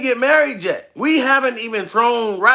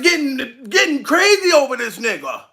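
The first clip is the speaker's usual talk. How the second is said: ordinary talk, nothing marked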